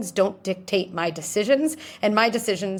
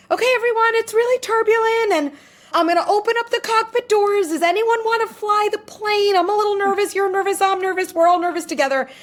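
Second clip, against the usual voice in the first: much higher, louder, nervous and wavering; anxious pushover pilot; 13 semitones higher, 5 dB louder than usual. Retold or imitated. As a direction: play a frightened pilot who gives up. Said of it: "here's pilot number two".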